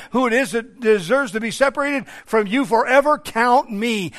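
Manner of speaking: forceful prayer, pushed on key words; impassioned plea. Retold or imitated. Preacher voices psalmist confessing to God, impassioned plea. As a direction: pour it out to God from the pulpit.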